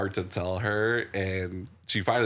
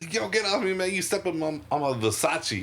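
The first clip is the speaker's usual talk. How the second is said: high, mock street voice; quoting Next Friday, pitched way up; movie quote; 10 semitones higher than usual. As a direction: toss it off high like an annoyed guy. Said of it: "there's a hilarious moment where it's like".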